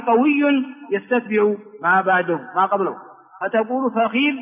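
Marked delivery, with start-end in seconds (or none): 3.9-4.4 فخذ as fa-khidh; original form fakhidh. Shown as a demonstration. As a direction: say فخذ with kasra on kh. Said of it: "هذه اللغة الأصلية". (فخذ بكسر الخاء: فَخِذ)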